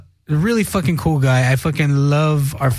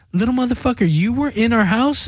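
higher-pitched, incredulous retold challenge; retold indignant confrontation; 6 semitones higher than usual. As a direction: confront him, acted out at normal volume. Retold confronting the kid over break-in.

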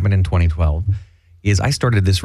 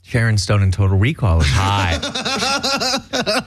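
trailer voice; much slower than usual. Pretend. Hammy movie-trailer voice.

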